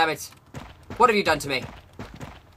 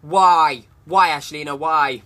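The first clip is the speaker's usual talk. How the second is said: loud, exasperated why; shouted whys; loud demand; 6 dB louder, slower than usual. Real, not acted. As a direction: demand an answer.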